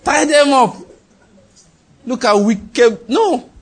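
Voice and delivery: high, loud, slow fire-prayer shout; hammed-up "die by fire" chant; mock preacher yelling at enemies. Mocking vengeful prayers.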